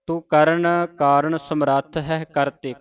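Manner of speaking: slow recital, stop on ਕਰਤੇ; pause after ਕਰਤੇ. Shown as a demonstration. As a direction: rest on ਕਰਤੇ. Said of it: "ਕਰਤੇ ਤੇ ਵਿਸਰਾਮ ਲਾਉਣਾ".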